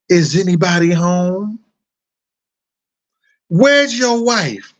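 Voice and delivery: lightly voicing Stormy Daniels; mock Stormy quote. Retelling Stormy asking him, lightly voiced. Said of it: "she asked him".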